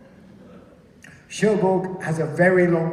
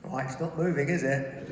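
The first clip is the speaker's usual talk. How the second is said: quiet doubt; 5 semitones lower, 7 dB quieter than usual. Acted. Acting quiet doubt at the altimeter.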